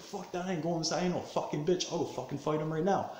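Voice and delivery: high-pitched, heated comeback; acted defiant refusal. Refusing friends' orders to go inside, defiant. Acting out his defiant reply.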